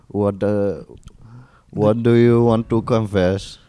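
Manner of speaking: mock Indian call-centre agent; Indian accent. Call-centre worker taking a confession, mock Indian accent. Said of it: "just a call center Indian".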